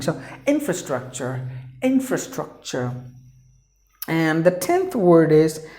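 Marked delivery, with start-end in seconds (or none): 0.4-2.9 infrastructure with the weight on IN; teacher modelling infrastructure, stress at the start. Shown as a demonstration. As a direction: lean on the first syllable of infrastructure. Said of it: "four syllables you have to stress in the beginning".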